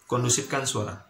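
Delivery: "Kondusifkan suara" said with measured, firm weight; firm emphasis. Shown as a demonstration. Lecturer settling a noisy class, firm emphasis. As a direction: press evenly on "Kondusifkan suara". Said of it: "nada yang agak penekanan".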